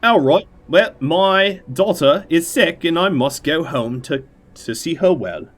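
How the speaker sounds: a Dick Van Dyke style bad Cockney plea; fake Cockney accent. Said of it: "Dick Van Dyke's fake Cockney accent".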